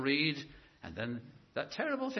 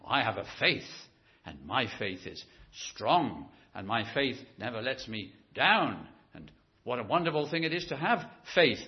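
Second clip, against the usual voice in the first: self-satisfied believer; 3 semitones lower, 4 dB louder than usual. Retold or imitated. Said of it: "people who talk like that".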